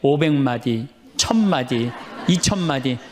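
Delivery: low inward tally; silent counting, acted. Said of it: "속으로 외우세요".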